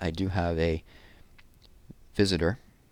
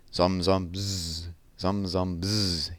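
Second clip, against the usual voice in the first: fading buzz; 3 dB quieter, much slower than usual. Retold or imitated. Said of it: "he imagined".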